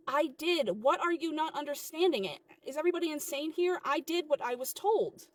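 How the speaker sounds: exasperated protest. Acted. Worker insists to manager she obeyed, exasperated. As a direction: argue back in open frustration.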